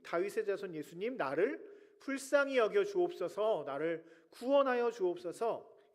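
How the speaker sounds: a loud, rising plea of a blind beggar calling after Jesus; crying out. Acted. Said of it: "큰 소리를 지르며".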